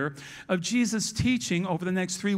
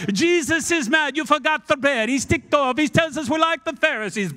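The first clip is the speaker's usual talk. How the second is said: loud, high mock Italian; Italian accent; 6 semitones higher, 6 dB louder than usual. Disciple reporting that Jesus is mad, hammed-up Italian accent. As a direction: rant in an exaggerated Italian accent. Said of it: "I hear it in Italian".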